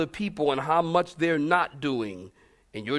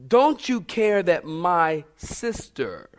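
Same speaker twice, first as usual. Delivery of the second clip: slow accusing quote; much slower than usual. Retold or imitated. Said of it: "Notice she said".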